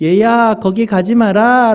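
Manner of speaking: high, slow, graceful, calm genteel tone.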